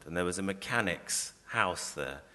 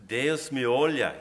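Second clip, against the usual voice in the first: louder, slow cry to the sky; cry to God; 6 semitones higher, 6 dB louder, slower than usual. Acted. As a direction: call out to God. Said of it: "he cries".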